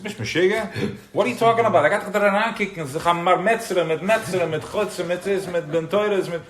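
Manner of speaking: high, loud, incredulous mock protest; scoffing shul-goer. At shul, voicing doubters, loud high scoffing. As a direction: play the man at shul who thinks you're nuts. Mocking shul-goers voiced.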